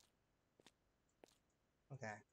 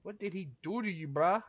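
sudden loud shout of shock, higher on God; shocked yell; 5 semitones higher, 14 dB louder than usual. Real, not acted. Seeing the body in the storage room, real shocked shouting. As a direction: blurt it out at the gory sight.

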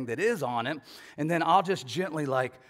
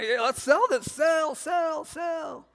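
higher and louder, shouting "sell" over and over; excited shouting; 12 semitones higher, 4 dB louder, slower than usual. Retold or imitated. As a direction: cheer it on like a chant. Couple excitedly deciding to sell.

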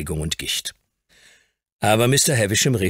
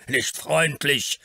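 slow, higher, outraged echo; furious; 10 semitones higher, much slower than usual. A narrator's reading. Old earl flaring up angrily at the lawyer. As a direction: fling the words back in anger. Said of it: "fuhr der Earl wütend auf".

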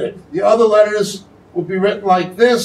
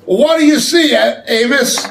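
raised divine question; the Lord asking; 4 semitones higher than usual. Acted. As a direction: call out to Amos. Quotes the Lord's question.

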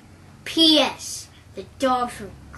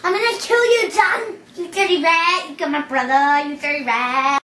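gangster impression; 4 semitones higher, 6 dB louder than usual.

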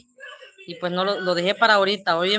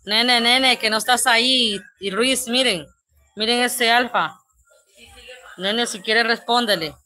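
higher and louder, playfully scandalised; mock outrage; 4 semitones higher, 7 dB louder than usual. Real, not acted. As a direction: call the crude commenter out with mock shock. Indignant at a crude comment.

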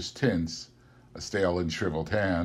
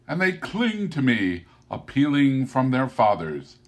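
spirit voice; 3 dB louder than usual. Acted. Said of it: "said the spirit".

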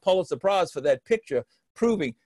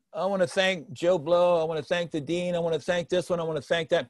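droning thank-you list; 4 dB quieter than usual. Shown as a demonstration. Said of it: "you don't wanna".

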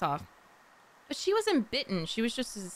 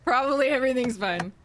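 imitating the line; 3 semitones higher, 5 dB louder than usual. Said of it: "I'm gonna go with".

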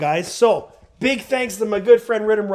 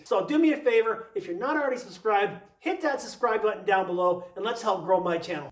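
a quieter, steady pitch-man read; sponsor ad read; 5 dB quieter than usual. Acted. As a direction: read it like your own channel's commercial break. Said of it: "my little commercial break".

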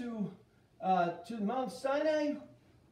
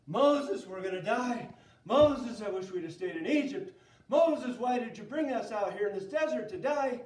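loud calls of Moses, nagging whine; whining complainers; 6 dB louder than usual. Acted. Thirsty Israelites whining at Moses for water. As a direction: wail at Moses like grumbling crowd.

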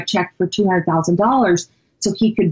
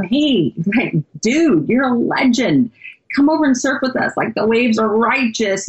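lightly voiced surfer dude; a hint of an eager surfer; surfer talk; 3 semitones higher than usual. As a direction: retell it as a friendly surfer calling a pal over. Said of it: "I don't have really great surf talk".

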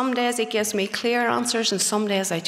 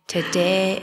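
"today" pushed out louder; "today" raised in a preacher's cry; 4 dB louder than usual. Shown as a demonstration. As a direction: call out "today" with force. Altar call, repeated louder.

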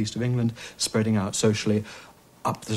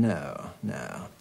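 put-on creaky, tense old-school "No, no."; 3 semitones lower, 7 dB quieter than usual. Shown as a demonstration. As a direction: let "No, no." crackle with creak. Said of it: "creaky voice coming in of the kind".

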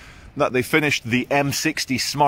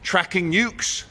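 higher, slower, mock-dramatic guesses; eager guessing; 8 semitones higher, slower than usual. Vlogger guesses the screen's use, higher and mock-dramatic. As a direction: guess wildly with mock gravity. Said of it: "I said".

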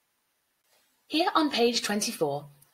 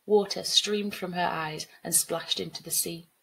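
measured storybook reading; story narration. A narrator's reading. Teacher reading a flood story to pupils, measured narration. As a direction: narrate the flood scene evenly.

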